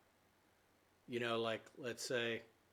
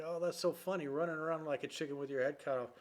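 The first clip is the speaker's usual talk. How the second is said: put-on amused kid; 4 semitones higher than usual. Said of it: "I started laughing like".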